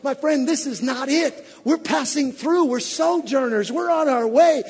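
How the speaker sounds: loud, high sermon climax; preaching at full force. Acted. Preacher lifting the congregation toward glory, at full force.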